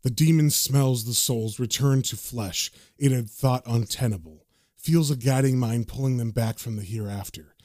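low, even narrator delivery; narration read aloud. A narrator's reading. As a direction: read it out as ominous caption text. The narration says.

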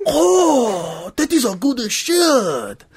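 high, slow, crying delight; blissful villager. Acted. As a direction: wail it out in bliss. Villager voiced in story.

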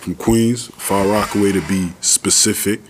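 put-on playful thick New York accent; heavy New York accent. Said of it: "let me put on my heavy New York accent".

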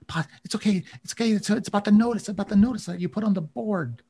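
high, eager kobold daughter voice; Sela pleading. Acted. Sela calming her father the chief, high and pleading.

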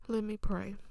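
whispered. Real, not acted. Before prayer, whispered.

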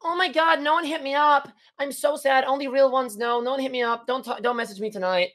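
high-pitched dramatic whine; hammed-up woe-is-me social media post; mock depressed teen. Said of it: "they get depressed. They're like".

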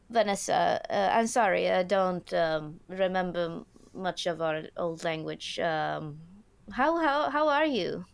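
put-on loud, halting mixed German-Swedish accent; broken German-Swedish-English accent. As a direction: snap back brightly in broken German-Swedish English, pitch jumping on the questions. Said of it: "in her weird German, Swedish, English, broken English accent, she snaps back".

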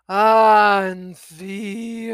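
loud drawn-out three-syllable name; country club drawl. Acted. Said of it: "country club drawl".

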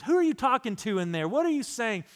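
a hint of a questioning grandma, pitch swooping up; lightly voiced grandma. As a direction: lightly imitate grandma calling into another room. Grandma calling to grandfather next room.

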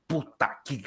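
slow, drawn-out marvelling; acted awe, taken very slowly; savoring admiration. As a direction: stretch each word as if savoring it. Acts out an admiring viewer's reaction.

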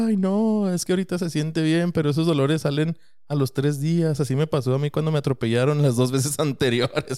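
the run-over mother complaining to the driver, hammed-up whine; mock whiny lady. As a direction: whine like a fussy señora. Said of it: "la señora llora y llora".

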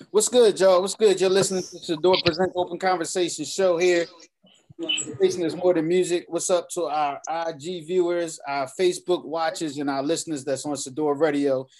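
loud, hyped radio host; radio host intro. Acted. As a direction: pump up the show open like a DJ. Show intro hype.

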